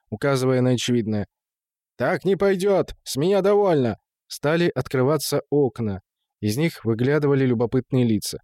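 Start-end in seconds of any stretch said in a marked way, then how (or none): 2.0-4.0 raised-pitch fed-up protest; angry outburst. A narrator's reading. Gustad has had enough of the watchman, angry outburst. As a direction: put your foot down, indignant. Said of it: "закричал Густат".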